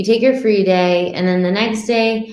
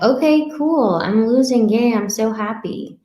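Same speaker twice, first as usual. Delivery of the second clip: mock excited; 3 semitones higher than usual. Dieter sees scale go down.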